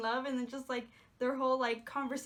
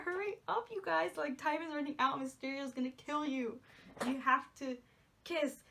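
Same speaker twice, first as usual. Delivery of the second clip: impatient fan urging. Retold or imitated. Urging the couple at the screen.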